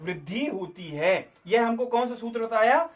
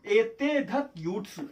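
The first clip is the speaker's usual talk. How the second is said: slow recitation; slower than usual. Shown as a demonstration. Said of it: "कौन सा सूत्र है".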